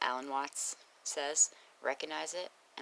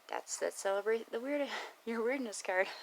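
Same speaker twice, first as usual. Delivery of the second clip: laughing; 9 semitones higher than usual. Real, not acted. Laughing while recalling a card.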